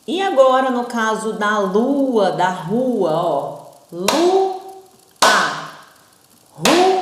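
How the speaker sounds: lua and rua sounded out; example words. Shown as a demonstration. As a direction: present the words as teacher examples. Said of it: "O u e o a nessas duas palavras".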